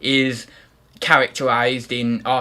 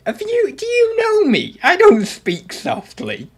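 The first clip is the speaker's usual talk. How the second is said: indignant protest; 4 dB louder than usual. Real, not acted. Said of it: "Speak so-, speak".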